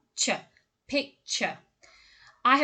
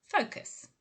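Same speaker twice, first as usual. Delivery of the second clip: whispered; 6 semitones higher, 5 dB quieter than usual. Shown as a demonstration. Pronunciation model word.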